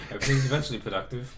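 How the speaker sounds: fast, through laughter; laughing. Real, not acted. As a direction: rush it while laughing.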